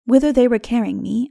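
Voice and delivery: plain reading voice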